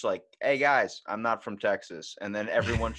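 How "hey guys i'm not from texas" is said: Southern drawl. Pretend. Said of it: "Southern drawl".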